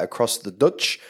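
lightly put-on, bad New Zealand accent; terrible Kiwi accent. Co-host talking New Zealand industry growth, terrible Kiwi accent. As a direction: slip into a poor Kiwi accent on the place names. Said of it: "terrible Kiwi accent".

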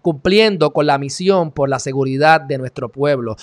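sarcastic, emphatic recital; mocking the motto. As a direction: declaim the slogan at full voice. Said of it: "Mira qué hipocresía".

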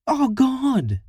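disgusted cry. Acted. Harriet reacts to vomit.

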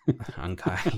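"Ankai" echoed as AHN-kye with a laugh; copying the Philly pronunciation. Retold or imitated. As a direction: repeat "Ankai" with a rising, amused tone. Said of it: "I say Ankai".

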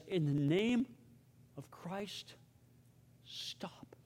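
fading into a voiceless whisper; acted dying words, broken by pauses, dropping to a whisper; dying breath. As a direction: let each phrase ebb away like a last breath. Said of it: "with his dying breath".

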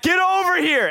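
high-pitched summoning call. Retold or imitated. Preacher re-enacting calling Luke P over, high call.

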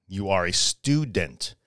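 You are a student said low and unhurried; slow and deliberate. Shown as a demonstration. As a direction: spell out You are a student slowly so it sinks in.

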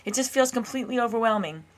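a loud, high burst of "No" that drops into an overwhelmed whine; an exhausted runner's inner voice balking at another hour; panicked refusal. Retold or imitated. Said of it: "my nervous system goes".

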